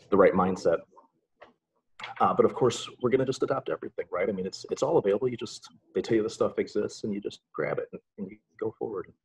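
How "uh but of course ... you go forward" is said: sarcastic. Real, not acted. Tech presenter pretending everything can just be adopted, sarcastic. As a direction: toss it off with light sarcasm. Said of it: "I'm being sarcastic".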